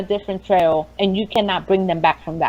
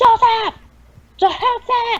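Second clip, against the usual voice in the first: very high, piercing, loud, rushed scream. At work on the phone, hearing a woman call out a name: retelling a woman's loud call. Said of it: "Like really, really loud".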